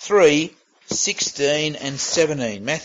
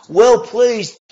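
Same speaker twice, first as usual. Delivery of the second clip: booming voice; 5 semitones higher, 5 dB louder than usual. Shown as a demonstration. Preacher echoing God's words in a booming voice. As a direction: repeat it higher and louder, booming. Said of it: "A booming voice identifying Jesus".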